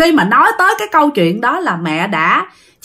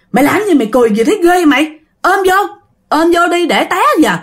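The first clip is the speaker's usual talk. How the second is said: tag; 7 semitones higher, faster than usual. Acted. Mother scolds the laughing passenger.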